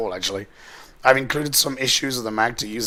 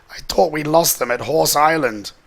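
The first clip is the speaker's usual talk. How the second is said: mild yell; 5 semitones higher than usual. Acted. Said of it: "She yelled".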